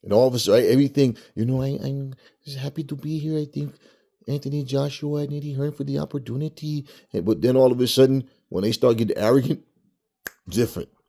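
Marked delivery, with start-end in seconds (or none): 1.3-6.8 humble, small-sounding, pitched-up voice. Imitating a fighter thanking promoters before a fight: imitating humble Andy Ruiz. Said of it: "when he was all humble".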